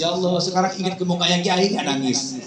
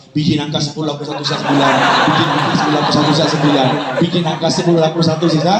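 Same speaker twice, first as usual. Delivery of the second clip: rapid-fire mumbo-jumbo incantation; fast comic recitation; mock prayer; 2 semitones lower, much faster than usual. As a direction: rattle it off like a memorised prayer. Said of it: "baca doa".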